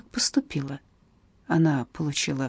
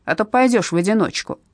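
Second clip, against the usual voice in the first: barked threat; 3 semitones higher, 3 dB louder than usual. Acted. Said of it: "рявкнула одна из них".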